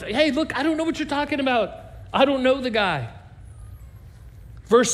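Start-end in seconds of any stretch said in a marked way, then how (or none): 0.0-3.1 a higher, rushed, heated denial. Retold or imitated. Peter swears to the crowd he doesn't know Jesus, heated and rushed. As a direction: brush them off fast and sharp. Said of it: "He denied it again with an oath".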